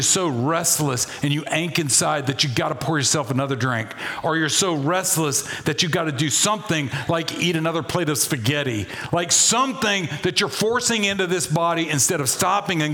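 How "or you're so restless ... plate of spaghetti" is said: ordinary talk, nothing marked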